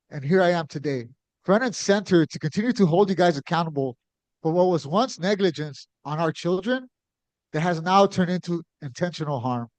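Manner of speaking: stuffy voice from a swollen, cast-covered nose; after nose surgery. Real, not acted. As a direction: talk through a blocked nose after surgery. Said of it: "I had rhinoplasty surgery yesterday".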